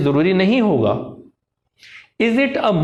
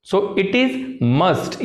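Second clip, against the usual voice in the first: deliberate learner's mistake, "So it is must" without "a"; slow incorrect example, "must" with no article before it; wrong version, no article; much slower than usual. Shown as a demonstration. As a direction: drop the "a": "it is must", said very slowly. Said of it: "ये गलत हो जाएगा".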